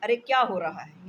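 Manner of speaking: a husband, startled by dust, calling out loudly. Acted. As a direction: jump in surprise and raise the voice. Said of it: "मियाँ चौंक कर".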